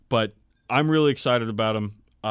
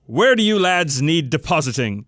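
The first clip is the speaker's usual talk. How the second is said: barking pilot; 4 semitones higher, 6 dB louder than usual. Acted. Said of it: "he barked into the comm system".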